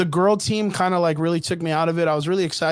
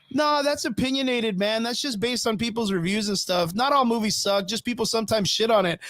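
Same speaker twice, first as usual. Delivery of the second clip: far-off voice; 4 semitones higher, 4 dB quieter than usual. Retold or imitated. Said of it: "one guy in the distance goes".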